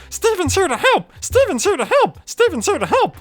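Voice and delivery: high, chirpy plant creature voice; squeaky cheerful cactus Steven. Retold or imitated. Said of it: "my Cactus Steven voice".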